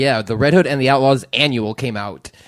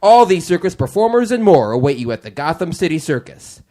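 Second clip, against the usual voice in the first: booming step-right-up showman; circus ringmaster; 2 semitones higher, 3 dB louder than usual. Acted. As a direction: sell the show like a carnival barker. Continues circus announcement.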